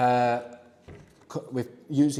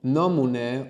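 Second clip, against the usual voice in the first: slow model phrase; slower than usual. Shown as a demonstration. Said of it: "or the informal".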